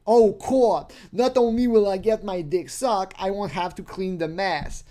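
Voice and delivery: lightly voiced smug pervert; mock delighted guy. Imitating the pervert pleased with her answer, mild glee.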